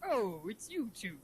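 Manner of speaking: slow cartoon crab boss; lightly voiced gruff sea captain; Mister Krabs. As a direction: play him like a cartoon crab. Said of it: "that's actually a pretty good Mister Krabs".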